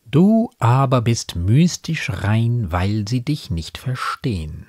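slow, measured poem recitation; Gedichtvortrag. A narrator's reading. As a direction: recite the verse slowly, letting each line settle. Quotes the poem's verse amid commentary. (getragen vorgetragenes Gedicht)

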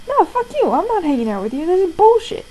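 high-pitched burst of mock outrage; retold angry refusal. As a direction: refuse with indignant, swooping pitch.

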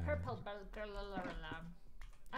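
put-on garbled Scottish accent, tongue tripping; slow down and tangle up in the Scottish accent. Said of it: "You gotta say that in a Scot".

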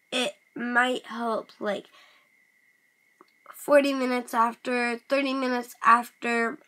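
talking while chewing gum; words round a wad of gum. Real, not acted. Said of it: "Sorry, guys, I'm chewing gum".

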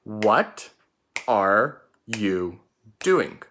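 words spaced out, one at a time. Shown as a demonstration. Teacher rereading the sentence word by word to pupils. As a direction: read it again, slowly. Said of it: "look at the sentence one more time".

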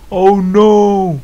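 loud, high cry of alarm; dismayed cry. Real, not acted. Player seeing health lost in the game, dismayed cry. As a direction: wail it out in sudden dismay.

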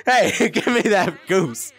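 high, greedy insistence; high-pitched possessive pestering; excited demanding. Real, not acted. Grabbing goose from friend.

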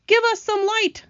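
high-pitched shout; shouted demand. A narrator's reading. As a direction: call out urgently in the dark. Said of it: "shouted the old green grasshopper".

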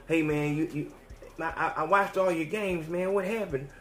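a cop talking softly, sweet-talking; a mild hushed cop voice, coaxing. Retold or imitated. Police officer softly coaxing an arrested former athlete, hushed.

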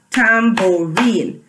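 "Tambourine" slowly as tam, bou, rine; broken into syllables. Shown as a demonstration. Teacher leading the class through the word, "Tambourine" syllable by syllable. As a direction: give each syllable of "Tambourine" its own beat. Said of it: "Let's clap".

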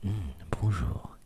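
breathy ASMR voice right at the mic; right in your ear. Shown as a demonstration. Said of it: "je fais un peu d'A C M R".

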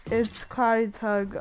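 slow, measured repeat of a name; slow clarifying repeat. Real, not acted. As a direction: spell out the name slowly. Repeats name for confused listener.

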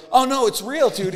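very high, loud mock protest; retold insistence. Comedian imitates magician defending the setup, high insistence.

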